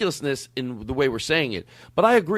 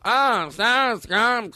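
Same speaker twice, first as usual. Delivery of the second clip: slow, drawn-out fake delight; hammed-up fake enthusiasm; mocking gush; 6 semitones higher, much slower than usual. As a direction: stretch it out like a bored pitchwoman. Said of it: "And you don't go".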